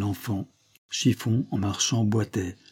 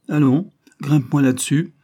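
raised, louder commanding voice; brusque order; 5 semitones higher, 6 dB louder than usual. A narrator's reading. Banquiste tells the child to climb, brusque order.

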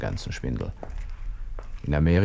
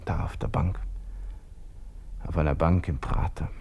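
geflüstert; 5 dB quieter than usual. Acted. Gustl müde auf der Bank.

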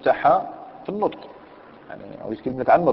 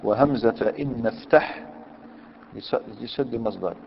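slow recitation; 4 dB quieter, slower than usual. Shown as a demonstration.

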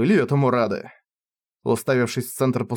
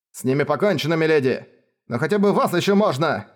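urgent; 3 semitones higher than usual. Acted. Advisor urges escape.

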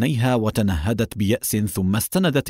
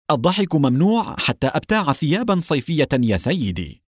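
cheerful; 6 semitones higher than usual. Acted. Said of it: "وبادرت قائلة بمرح".

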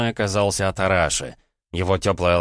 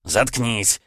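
snapping; 4 semitones higher than usual. Acted. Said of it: "прервал меня покровитель".

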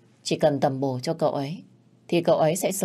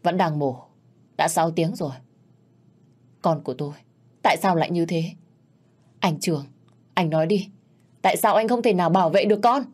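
anguished blame; 2 semitones higher, faster than usual. Acted. Mother blaming husband at hospital.

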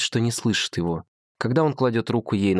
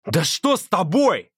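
higher, slow, shouted; 10 semitones higher, 4 dB louder, slower than usual. A narrator's reading. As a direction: yell it in shock after the slap. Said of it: "кричит он".

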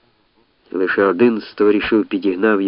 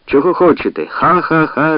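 mocking laugh; 7 semitones higher, 4 dB louder than usual. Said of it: "реготали з юрби".

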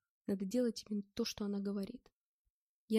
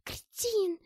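high, loud screech; shrieking; 10 semitones higher, 6 dB louder than usual. Acted. Pinned girl shrieking at her attacker, high loud screech. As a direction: scream it in fury. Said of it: "визжала Маша".

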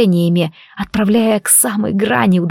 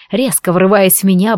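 ordinary delivery

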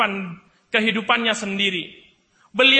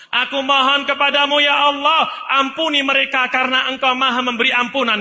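loud pleading cry; 4 semitones higher, 4 dB louder than usual. Acted. Ibrahim cries out to God for his people, loud high plea. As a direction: push it up, higher and louder. Prayer repeated, soft then loud.

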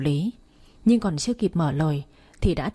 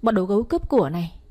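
calling for help; 3 semitones higher, faster than usual. Acted. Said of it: "tôi la lên".

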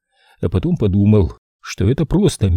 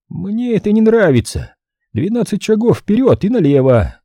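higher voice, joking stops; serious, humor gone; 11 semitones higher than usual. Acted. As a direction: drop the humor, give orders. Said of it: "за эту паузу куда-то испарился весь его юмор".

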